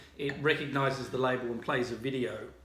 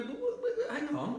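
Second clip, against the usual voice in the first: high, flustered stammer with a laugh; mock-panicked protest, voice jumping up; a hammed-up stammering protest; flustered pensioner; 13 semitones higher, 4 dB quieter than usual. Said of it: "these people go".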